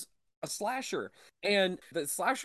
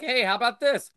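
loud, high put-on gushing voice; mocking eager fan; 6 semitones higher, 10 dB louder than usual. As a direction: parody an overexcited horror fan. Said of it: "And you'll be like".

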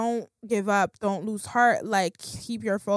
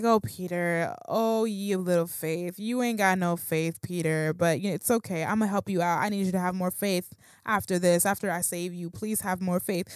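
lightly voiced forgiving teacher, pitched down; gentle Jesus; 4 semitones lower than usual. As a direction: let him off gently, low and patient. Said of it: "looked at Peter with grace".

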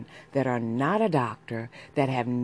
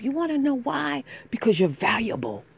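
emphatic encouragement; 7 semitones higher, 5 dB louder than usual. Real, not acted. Encouraging listeners.

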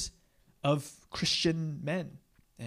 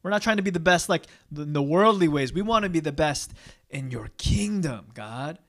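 mock protest; 3 semitones higher, 6 dB louder than usual. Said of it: "but they're like".

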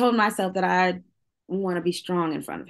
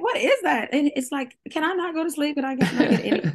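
mock-annoyed mom, laughing; 8 semitones higher than usual. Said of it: "And I would be like".

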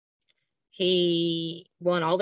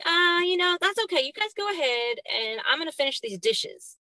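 imitating her son; 8 semitones higher than usual. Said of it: "And he was like".

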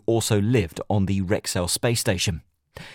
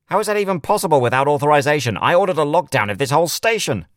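louder, higher, fast anger; furious disbelief; outraged; 7 semitones higher, 5 dB louder, faster than usual. A narrator's reading. Outraged sheriff.

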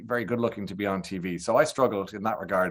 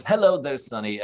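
Gay Byrne impression; 4 semitones higher, 3 dB louder than usual. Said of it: "impressive impersonation, by the way, of Gaybo".

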